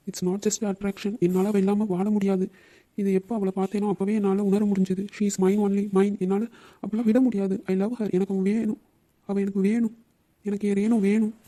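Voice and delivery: mildly tearful, insistent lovesick plea; tearful insistence. Acted. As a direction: insist through tears that she's yours. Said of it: "வீடு அழாத". (அழுகையோடு பிடிவாதம்)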